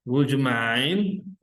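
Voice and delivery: drawn out slowly, each word spaced for students; slow model phrase. Shown as a demonstration. Teacher models the polite phrase.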